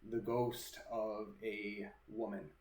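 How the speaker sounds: slow, deliberate ghost-story narration; drawn-out narration with suspenseful pauses; game master's scene setting. Acted. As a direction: describe the apparition piece by piece, unhurried.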